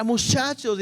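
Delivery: "muchachos" as in Chihuahua; Chihuahua pronunciation. Shown as a demonstration. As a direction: say "muchachos" the northern way, sh sound. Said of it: "pronuncian de esa manera".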